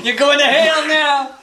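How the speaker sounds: high, slow laughing taunt; mock excited taunt. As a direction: stretch it out gleefully. Echoing taunt about bus video.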